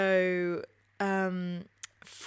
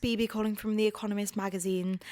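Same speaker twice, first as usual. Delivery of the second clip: posh phone voice; 3 dB louder than usual. Retold or imitated. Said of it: "because of my posh, wanky voice".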